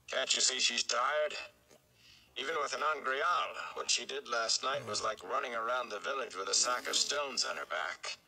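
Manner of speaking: lightly voiced stern warder. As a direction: scold the shepherd for pushing her. Lan rebukes Rand.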